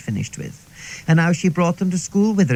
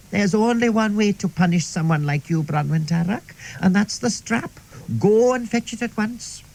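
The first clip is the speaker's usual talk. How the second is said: tense; 2 semitones higher than usual. Retold or imitated. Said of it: "very tense-like".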